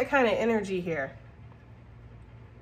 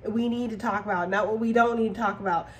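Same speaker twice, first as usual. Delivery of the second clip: blunt, no-nonsense. Retold or imitated. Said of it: "you're gonna be like".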